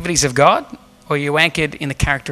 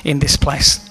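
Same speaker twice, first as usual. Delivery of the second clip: closing prayer. Acted. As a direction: pray over the congregation with fervour. Pastor leads closing prayer.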